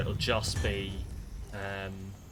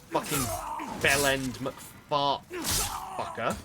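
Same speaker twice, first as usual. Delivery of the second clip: swearing tirade; 2 semitones higher, slower than usual. Real, not acted. Raging at game enemy.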